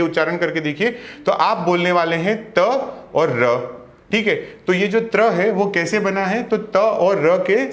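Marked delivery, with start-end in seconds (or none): 2.5-3.6 त and र said apart, slowly, one sound then the other; slow pronunciation. Shown as a demonstration. Teacher splits त्र slowly for students. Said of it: "थोड़ा सा slow pronunciation करके देखिए".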